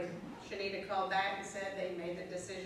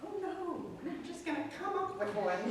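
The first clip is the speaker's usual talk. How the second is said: laughing; 8 semitones higher than usual. Retold or imitated. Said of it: "I chimed in".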